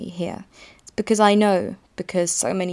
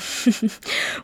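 brief real chuckle; short laugh; 3 semitones higher than usual. Real, not acted. Laughs at own candid remark.

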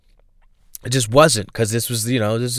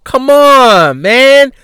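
louder, fed-up rant at Matthew; mock exasperation; 2 semitones higher, 5 dB louder than usual. Comic telling cousin Matthew off, mock exasperated. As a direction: scold your cousin, half laughing, half annoyed. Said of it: "I'm like".

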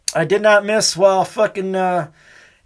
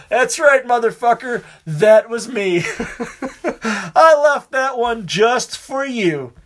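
smug gloat; 3 semitones higher, slower than usual. Retold or imitated. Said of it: "grin and bear it".

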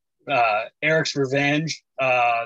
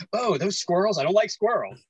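lightly voiced child, pitched up; imitated young daughter; 5 semitones higher than usual. Dad imitates daughter dismissing the movie rats, lightly childlike.

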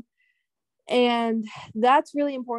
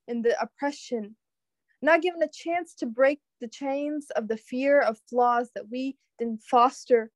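spoken word poetry. Shown as a demonstration. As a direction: perform the poem with weight. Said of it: "we'll end it on that note with a poetic performance".

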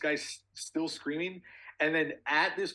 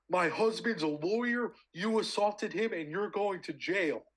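high, slow, drawn-out mock scream; retold screaming; 6 semitones higher than usual. Man imitating the wife storming back at baggage claim, mock screaming. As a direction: mimic an outraged wife without real volume. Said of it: "and she starts screaming".

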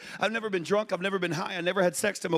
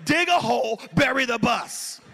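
comic shout; 5 dB louder than usual. Pretend. Punchline yelled.

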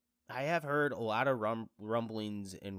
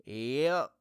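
loud, higher-pitched blubbering defence; mock tearful; 6 semitones higher, 6 dB louder than usual. Husband defending his tears to his wife, mock tearful. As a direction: whine it like a hammed-up crier. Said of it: "you're crying about".

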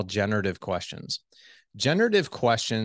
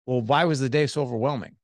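pointed, slightly higher challenge; accusing why question; 4 semitones higher, faster than usual. Retold or imitated. Husband to wife after her hard day, accusing tone. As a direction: put her on the spot with the why. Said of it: "versus like".

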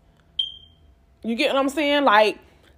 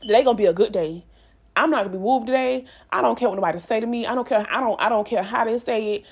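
morning pep talk; faster than usual. Retold or imitated. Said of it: "Okay, you know what? Nope".

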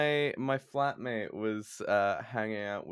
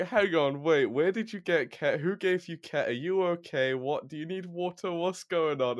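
higher, anxious rush of questions; mock worried; 6 semitones higher than usual. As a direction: play the worried flatmate chasing after them. Worried questions to flatmate retold.

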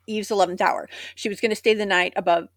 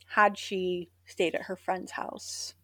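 hushed; 10 dB quieter than usual. Real, not acted. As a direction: drop to a near whisper. Dramatic hushed aside about fate.

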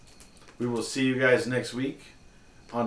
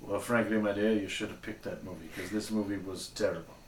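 put-on Mid-Atlantic accent; 3 semitones lower, 5 dB quieter than usual. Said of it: "Mid-Atlantic accent".

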